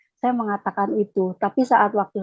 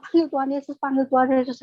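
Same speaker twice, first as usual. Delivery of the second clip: panicked plea; 4 semitones higher, faster than usual. Retold or imitated. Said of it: "Saya panik gitu kan".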